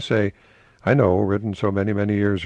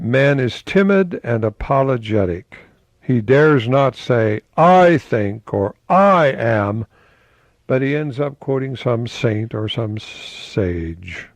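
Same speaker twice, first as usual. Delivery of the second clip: slow, louder recitation; quote reading; 4 dB louder, slower than usual. Acted. Host quoting Emerson to viewers, slow declamation. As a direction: declaim it with weight.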